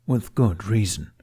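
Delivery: slow, deliberate dragon voice; measured, pointed dragon reply; carefully chosen words. Acted. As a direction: weigh every word before it leaves. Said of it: "using carefully chosen words".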